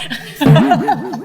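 high burst of laughter; loud amused cackle. Real, not acted. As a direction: laugh at your own outburst. Laughs at own retort.

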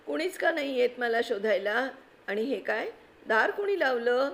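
put-on a little boy asking why nobody came; puzzled child. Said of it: "तो म्हणत होता".

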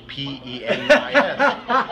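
letters P E N I S spelled slowly, one by one; slow spelled letters with a laugh; spelling it out. Retold or imitated. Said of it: "how do you spell it".

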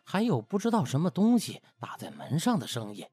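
usual speaking voice

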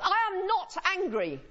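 high, tense "I am not angry"; angry denial. Shown as a demonstration. Lecturer showing how tone flips meaning, angry denial. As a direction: deny being angry while plainly angry. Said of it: "the meaning you will have got from that is that I'm angry".

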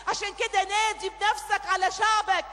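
loud, high, preaching prayer at full force; fervent shouted intercession over music; impassioned prayer. Real, not acted. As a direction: pour it out to God, rising and loud. Prays aloud at full force.

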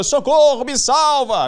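mock cry for help. Fleeing thief pleading in the street, mock cry for help. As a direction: call out like someone begging rescue. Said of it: "pedindo ajuda".

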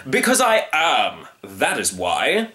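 pompous, drawn-out retort; stubborn hunter. Acted. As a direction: lay it down with finality. Hunter answers firmly.

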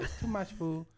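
put-on caricatured Asian-accented English; mock Asian accent. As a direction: imitate a sushi server's Asian accent. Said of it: "Just do the accent".

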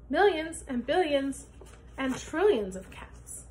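put-on high, loud fussing old woman; scolding old woman. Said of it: "she cried".

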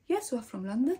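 lightly imitated British accent; mild mock-British reply. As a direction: give a hint of a British shop assistant. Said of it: "The most British accent I hear".

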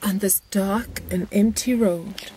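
slow, hushed mock-thriller whisper; spooky whisper. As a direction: whisper it like the opening of a horror film. Spooky mock narration of the road.

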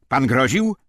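loud, high demanding yell; shouting interrogator. A narrator's reading. SS officer storming into the classroom, shouting. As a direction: bark the accusation at the room.

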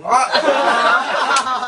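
high, loud, airy "ah" with a laugh; clueless cute gasp. Retold or imitated. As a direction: play dumb with a bright squeak. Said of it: "황정음 씨가 아무것도 모를 때 내는 그 소리".

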